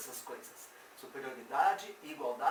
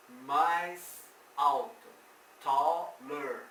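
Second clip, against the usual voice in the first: slow and a little louder; slow drill; 6 dB louder, much slower than usual. Shown as a demonstration. Teacher drilling the translation, slow. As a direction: drill it slowly for the class. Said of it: "esse er faz de conta que é mais".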